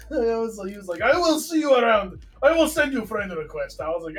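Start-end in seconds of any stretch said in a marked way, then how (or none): 1.0-3.8 mock Russian accent, lifted a little; broken-English Russian impression. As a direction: imitate a Russian making friends. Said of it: "You speak good broken English".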